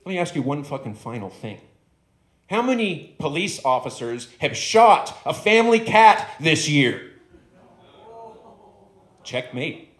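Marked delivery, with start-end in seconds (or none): 0.0-7.1 louder, higher final gotcha question; triumphant dog. Acted. The dog finishes his argument with the stoned man, triumphant. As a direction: land the last point like a checkmate. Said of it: "He goes".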